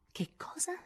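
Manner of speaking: un soffio acuto e incredulo; sbalordita. Acted. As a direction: senza voce dallo shock. (Jo sbalordita chiede ad Amy, quasi senza fiato)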